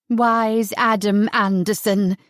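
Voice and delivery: slow mocking sneer. Sarah sneering at Adam, slow and mocking. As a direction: drag out the mock praise. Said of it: "she sneered".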